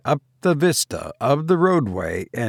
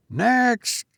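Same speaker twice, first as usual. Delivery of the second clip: put-on cockney boy; 11 semitones higher than usual. A narrator's reading. Ostler boy.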